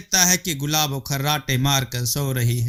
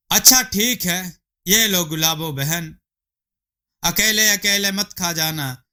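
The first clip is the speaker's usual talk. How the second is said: higher, friendly calling neighbour voice; 4 semitones higher than usual. Acted. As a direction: call her out of the house cheerfully. Rima hands over food.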